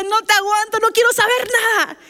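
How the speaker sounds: high-pitched, fed-up mock outburst; retold anger. Labouring wife fed up with husband, retold angry outburst. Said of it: "me enojé. Dije".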